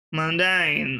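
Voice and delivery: MUNDANE in a put-on accent, last vowel widened towards "dine". Player musing over the word puzzle, MUNDANE in a put-on accent. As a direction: broaden the accent on MUNDANE, stretching it to "mun-dine". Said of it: "I don't know why I'm putting on an accent".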